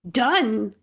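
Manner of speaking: sharp, high screech of disbelief. Acted. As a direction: screech the word out. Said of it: "Zoe screeched".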